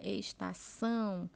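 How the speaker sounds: estação with the final "ção" drawn out; stress on last syllable. Shown as a demonstration. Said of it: "a sílaba mais forte está na última". (tônica na última sílaba de "estação")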